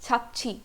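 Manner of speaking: छापची with a ch-like opening; correct Korean pronunciation. Shown as a demonstration. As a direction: repeat छापची, leaning on the च sound. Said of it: "च वाला sound ज़्यादा close है".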